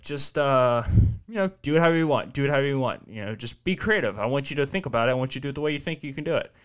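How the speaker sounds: light teasing tone; jokingly offhand; facetious joking. Retold or imitated. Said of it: "being facetious".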